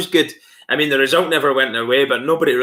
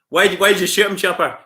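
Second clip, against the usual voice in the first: impression; 5 semitones higher than usual. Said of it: "I used to try and do the Chopper Read stuff".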